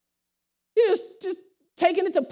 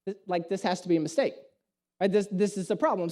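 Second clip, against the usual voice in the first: muttered disbelief; 6 semitones lower, 5 dB quieter, faster than usual. Retold or imitated. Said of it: "And I'm like".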